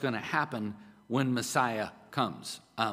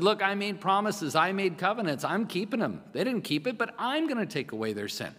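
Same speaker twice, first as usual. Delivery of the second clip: God's promise; 5 semitones higher than usual. Acted. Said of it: "He said".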